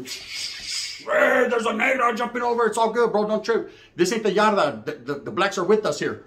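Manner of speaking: a hint of a relaxed homeboy reassuring; voicing the homeboy. Homeboy telling the girl not to trip, lightly voiced.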